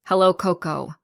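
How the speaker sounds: sugary, fake-sweet greeting; a hint of a mother's syrupy menace; honeyed but insincere hello; false sweetness. A narrator's reading. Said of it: "her voice dripping with false sweetness".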